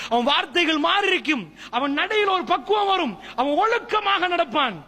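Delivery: high-pitched sermon delivery; impassioned preaching. Real, not acted. Preacher describing a changed believer, impassioned.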